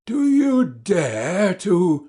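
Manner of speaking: slow, menacing challenge; threatening fury. Acted. Doctor to his brother, losing his temper. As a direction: spit each word, ready to strike.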